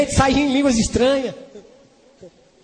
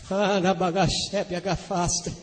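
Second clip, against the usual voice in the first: speaking in tongues; 6 semitones lower, 10 dB quieter, slower than usual. Retold or imitated. Retelling waking up in tongues.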